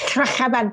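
"Clachaibant" with throaty Welsh ch; Welsh pronunciation. Shown as a demonstration. Guest repeating the swear for hosts, "Clachaibant" said the Welsh way. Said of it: "in Welsh, this is different".

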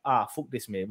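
put-on a light, half-hearted Sunderland fan accent; a hint of a Sunderland accent, mocking the fans leaving early; attempted Sunderland accent. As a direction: slip into a faint Sunderland accent, playfully. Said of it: "trying to do an accent".

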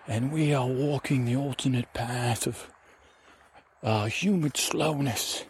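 lightly voiced adventure guide; lilting, unhurried oddball narration; Kiwi Shavers character. Adventurer guiding the ranger into nowhere, lightly put-on voice.

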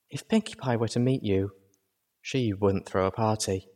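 soft, gentle mare's voice. Acted. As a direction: lay the words down gently. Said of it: "her voice giving gentleness to her words".

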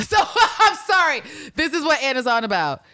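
speaking through laughter, high and loud; words spilling out through laughter; laughing while talking. Real, not acted.

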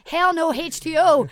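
loud, slow, laughing bar call; bar shout. Retold or imitated. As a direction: belt it out from the bar table. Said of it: "dance on the table and say".

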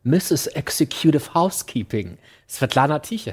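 English accent in German, lightly done; light British accent. Shown as a demonstration. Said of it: "mit einem leichten britischen Akzent".

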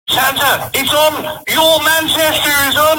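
high, excited wife voice; Mrs Claus voice. Retold or imitated. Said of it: "Missus Claus, she says".

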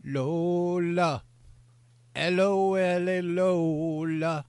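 lightly put-on British accent, drawn out. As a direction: croon the name Lola in a British accent. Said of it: "That was my British accent".

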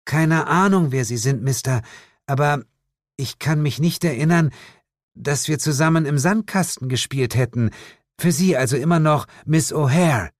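lightly voiced witch, cool and dismissive; a hint of a haughty witch. Witch rebuffing the hunter, lightly haughty. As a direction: brush him off like a proud witch.

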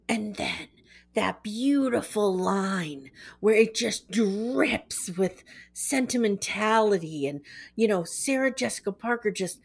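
slow, dreamy gushing over his own line; lightly voiced gushing writer; paraphrased gushing writer. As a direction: swoon over the line, mildly. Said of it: "I'm not gonna imitate his voice".

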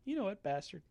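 hammed-up fed-up explosion; mock outrage.

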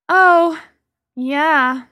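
drawn-out, distracted reply; absent-minded. A narrator's reading. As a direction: answer as if your mind is elsewhere. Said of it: "absent-mindedly".

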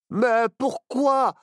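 alarmed question. Acted. Children puzzled in cell.

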